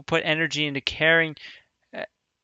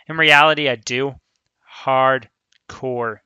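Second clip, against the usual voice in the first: emphatic; 4 dB louder, slower than usual. Real, not acted. Emphatic relating to the character.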